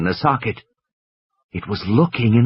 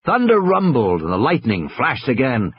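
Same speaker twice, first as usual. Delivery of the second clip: usual speaking voice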